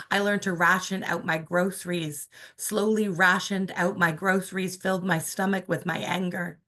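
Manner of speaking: measured spoken-word delivery, pauses between lines; performing a poem about mother for an audience; poem reading. Acted. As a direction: let the repeated lines echo. Reads the duplex poem.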